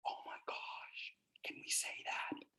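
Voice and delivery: hushed, as if the word were forbidden; mock scandalized whisper. Trainer leaning in to the class, scandalized whisper. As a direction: whisper it like a naughty secret.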